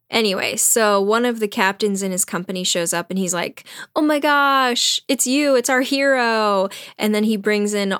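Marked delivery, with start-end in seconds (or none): 3.9-6.7 higher-pitched, starstruck greeting; gushing admirer. Retold or imitated. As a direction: gush like a thrilled fan. Captain gushing on finding his hero.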